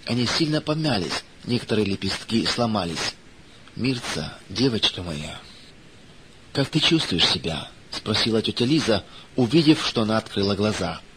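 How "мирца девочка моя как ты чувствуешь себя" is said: hushed motherly concern; tender concern. A narrator's reading. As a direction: speak gently to a waking patient. Aunt gently addresses waking injured girl.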